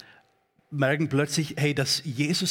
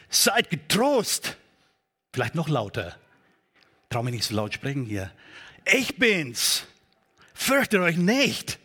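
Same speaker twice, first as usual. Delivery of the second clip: loud and commanding; 2 semitones higher than usual. Shown as a demonstration. Jesus calls to the disciples over the wind, loud and commanding. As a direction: call it over the storm with authority. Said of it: "Also eher laut und kräftig, autoritär gleichzeitig".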